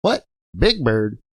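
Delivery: imitating a baffled old-timer; short, questioning mock bewilderment; incredulous trainer's voice. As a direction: echo it back in disbelief. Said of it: "With that voice".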